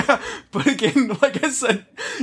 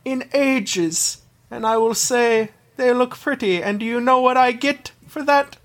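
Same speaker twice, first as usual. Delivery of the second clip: silky polite villain; 2 semitones higher than usual. Acted. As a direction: purr it like a gloating Bond villain. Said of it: "that's just how he talks now too".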